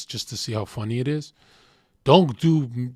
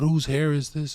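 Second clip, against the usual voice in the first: imitating her freak-out, voice pitched up; higher-voiced mock accusation; retold freak-out; 5 semitones higher than usual. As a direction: act out a freaking-out girlfriend. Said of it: "she started freaking out".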